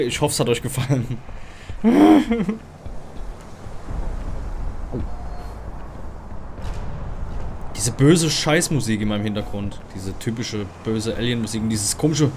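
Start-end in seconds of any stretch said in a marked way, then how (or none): 1.2-7.7 nervous laughter. Real, not acted. Nervous reaction after mock sign-off.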